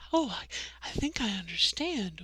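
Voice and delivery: hushed imitation of a coworker. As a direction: keep it discreet, as if people surround you. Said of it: "She lowered her voice".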